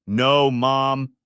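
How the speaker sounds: loud desperate no; shouted. Acted. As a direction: shout to stop her mom. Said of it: "Penny shouted".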